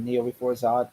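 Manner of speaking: low quiet villain quote; a hint of Zod's menace; dark lord. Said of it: "I love your name".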